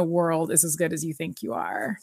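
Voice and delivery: whispered, dark and low-key; whispering the foreshadowing line; ominous whisper. Retold or imitated. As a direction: breathe it like a warning. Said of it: "ominous foreshadowing".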